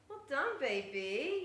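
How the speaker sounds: high "well done" to the cat; pet praise. Real, not acted. Owner praises her cat Pochi, high coo. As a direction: praise the kitten sweetly.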